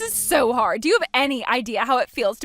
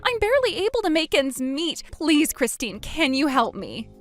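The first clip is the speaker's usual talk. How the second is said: pleading; 4 semitones higher than usual. Acted. Man pleading about alimony.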